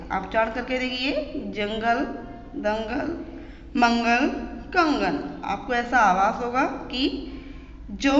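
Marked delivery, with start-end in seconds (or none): 1.4-5.4 ng in जंगल, दंगल, मंगल sounded through the nose; nasal anusvara. Shown as a demonstration. Teacher inviting students to feel the nose sound, nasal anusvara. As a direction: let the nasal ng ring in जंगल and कंगन, word by word. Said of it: "नाक से".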